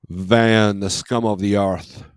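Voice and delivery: slow, hammed-up British accent; horrible British accent. Streamer joking about van freight, in a horrible British accent. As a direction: put on a bad British accent, drawn out. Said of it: "that was a horrible British accent".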